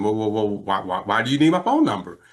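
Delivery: stammering, retold reluctance; backing off. Caller asked for his phone number, stammering retreat. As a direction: back away with repeated first words. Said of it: "now I'm crawfishing".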